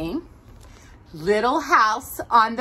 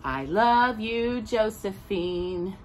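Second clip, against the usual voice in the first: soft goodnight; slower than usual. Acted. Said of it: "whispered Josephine".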